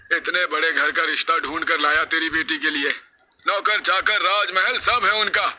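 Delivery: high-pitched, irritated scolding; angry husband. Acted. Husband rebukes wife over her omens, angry. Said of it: "पति की गुस्से से भरी आवाज".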